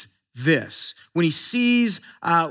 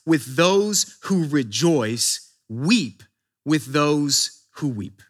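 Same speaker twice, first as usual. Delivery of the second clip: slow scripture reading; 6 semitones lower, much slower than usual. Shown as a demonstration. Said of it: "Romans twelve fifteen tells us".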